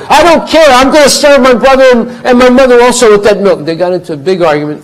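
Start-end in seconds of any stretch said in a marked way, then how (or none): 0.1-3.7 high, loud stubborn shout; wife shouting her defiance at husband; defiant wife. Acted. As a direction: yell it with no give at all. Wife insists in quarrel.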